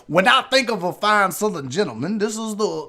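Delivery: lightly voiced Southern gentleman; Southern gentleman accent. Shown as a demonstration. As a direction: slip gently into Southern gentility. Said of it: "It's not a hard accent to do".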